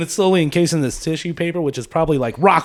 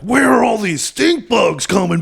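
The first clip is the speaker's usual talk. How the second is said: mock sewage worker; 4 semitones higher, slower than usual. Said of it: "the sewage department is like".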